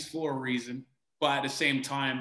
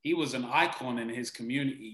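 usual speaking voice

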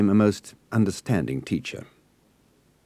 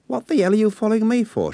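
sharp, much higher Cockney challenge; angry demand; 14 semitones higher, 4 dB louder than usual. A narrator's reading. Young woman rounds on the boy following her, demanding. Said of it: "she demanded".

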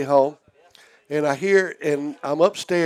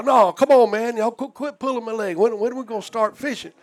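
higher, protesting he hasn't fished yet; lightly voiced puzzled drunk; confused drunk protest; 5 semitones higher than usual. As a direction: play the bewildered guy who slept through it.

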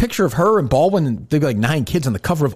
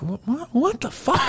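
slow, high incredulous what; drawn-out baffled what the fuck; imitating stunned disbelief; mock disbelief; 8 semitones higher, 5 dB quieter than usual. Mock shocked quote.

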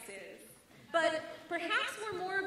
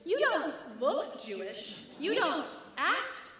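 mock compliment; slower than usual. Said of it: "he says it in this tone like he's complimenting me".

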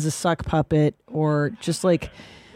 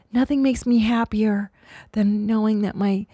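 quoting clip woman; 2 semitones higher than usual. Retold or imitated. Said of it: "that one clip ... she's like".

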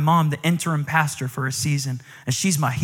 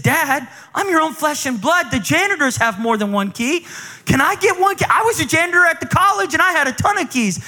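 higher, whiny pleading son; whiny plea; 10 semitones higher than usual. Retold or imitated. Son pleading with his dad for more keys, high and whiny. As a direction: whine for one more key.

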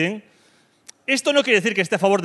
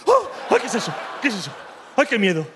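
mock scared girlfriend; 3 semitones higher than usual. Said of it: "vosotras chicas lo flipáis".

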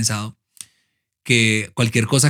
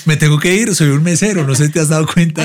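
louder, higher mock waiter fed up; impatient waiter shout; 6 semitones higher, 7 dB louder, faster than usual. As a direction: snap at the lady like a rushed waiter. Imita al mesero impaciente. (mesero impaciente gritando en broma)

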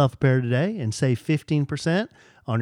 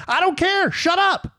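mock retort. Retorting to imagined fans.

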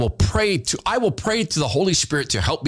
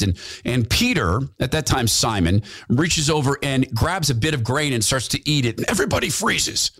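usual speaking voice

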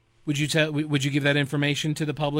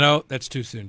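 normal talking voice

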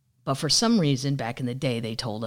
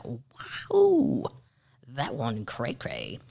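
mock amazement; 3 semitones lower, much slower than usual. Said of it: "you'll be like".

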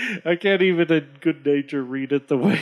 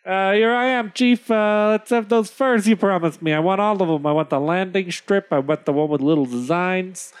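high-voiced trader claiming what is owed; pushy trader addressing a chief; 4 semitones higher than usual. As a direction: start high, then settle as the demands pile up. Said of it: "and said".

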